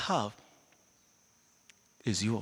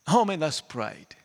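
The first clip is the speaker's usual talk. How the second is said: normal talking voice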